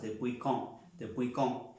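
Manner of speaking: "quand" said with a nasal O, like "kon". Shown as a demonstration. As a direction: round the vowel of "quand" into a nasal O, D silent. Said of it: "No digo". ("quand" con O nasal, como "kon")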